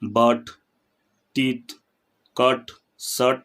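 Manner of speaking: "but, teeth, cut, shut" with the vowel drawn out; one word at a time, long-held vowels in "but, teeth, cut, shut"; lengthened vowel. Shown as a demonstration. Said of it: "लंबा खींचते हैं".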